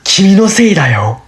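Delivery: fast, put-on blaming; mock accusation. Blaming someone in Japanese, quick mock accusation. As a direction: blame them sharply and quickly.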